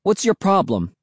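high-pitched, mildly angry challenge; angry protest. A narrator's reading. Will to Cassie after being socked, mildly angry. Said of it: "Will cried out angrily".

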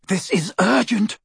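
high-pitched, fierce urgency. Acted. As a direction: press the point fiercely. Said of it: "he said fiercely".

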